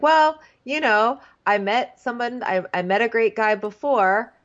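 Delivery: high, halting retold reply; mock careful. Contestant trying not to repeat it, mock careful. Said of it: "trying to be really careful".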